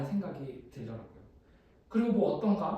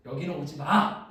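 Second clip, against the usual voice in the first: firm retold warning, louder on the end; firme advertencia citada; 6 dB louder than usual. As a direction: warn them off firmly, as retold. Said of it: "저한테 단호하게".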